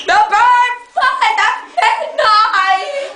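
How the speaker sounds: slow mock-mysterious code phrase; slow secret code phrase. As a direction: stretch the words out like a secret agent. Spy code phrase repeated slowly.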